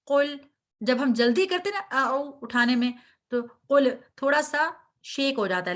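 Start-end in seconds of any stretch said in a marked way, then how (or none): 0.1-0.4 قل with a heavy ق and the ل said gently, unbounced; teacher shows the soft lam. Shown as a demonstration. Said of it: "لام کو نرمی سے".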